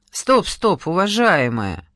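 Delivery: harsh rebuke; sharp and unpleasant. Acted. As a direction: cut her off coldly. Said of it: "Он зазвучал резко и неприятно".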